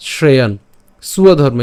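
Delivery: শ্রেয়ান closed on n, then স্বধর্ম as "suwa-dharma"; distinct, falling শ্রেয়ান, স্বধর্ম; careful pronunciation. Shown as a demonstration. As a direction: model শ্রেয়ান and স্বধর্ম separately. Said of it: "উচ্চারণ কেমন".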